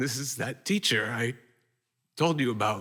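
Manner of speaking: cracking voice, breaking, near tears. Telling the audience about introducing an old teacher to his wife, voice breaking. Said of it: "(voice breaking)".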